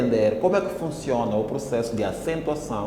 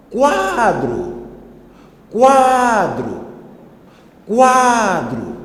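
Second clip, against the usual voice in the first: much higher, louder call to someone distant; 8 semitones higher, 7 dB louder, much slower than usual. Shown as a demonstration. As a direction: shout Quadro across a distance. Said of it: "chamar a pessoa que está distante com uma voz mais forte".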